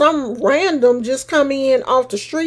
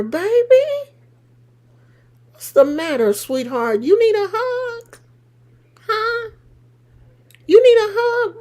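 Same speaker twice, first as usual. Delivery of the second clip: mock comfort; 6 semitones higher than usual. Real, not acted. Mock consoling the angry viewer.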